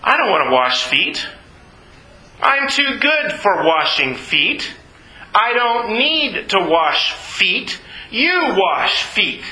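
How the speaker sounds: slow, drawn-out self-important refusal; too proud for the job, each word stretched; dismissive, stressed and slow; haughty refusal. Retold or imitated. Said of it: "they're arguing about who's the greatest".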